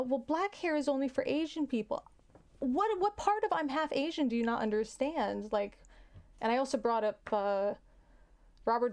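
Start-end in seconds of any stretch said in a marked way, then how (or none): 0.0-2.0 higher-pitched mimicry of an objector; mock someone's naive certainty; imitated naive objector. Someone insisting on who has black hair, imitated naively. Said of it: "I had somebody tell me". 2.6-5.5 higher-pitched exasperation; exasperated retort. Retold or imitated. Half-Asian speaker to a doubter, exasperated. Retorting to people who question background.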